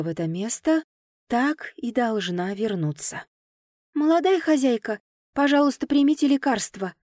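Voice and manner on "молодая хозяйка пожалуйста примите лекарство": put-on high, sweet servant-girl coaxing, stress on молодая; ringing maid's voice. A narrator's reading. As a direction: coax her gently up high like a young maid. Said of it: "раздался звонкий голосок".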